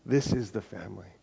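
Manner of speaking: a calm, sure repeat of Paul's words; quiet emphasis. Retold or imitated. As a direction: say it gently, letting it land. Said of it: "you see Paul going like".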